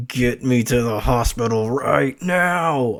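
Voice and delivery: slow, drawn-out imitation of a silent plea; imagined urgent plea. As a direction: voice her desperate thought, stretched out. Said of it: "her eyes are thinking".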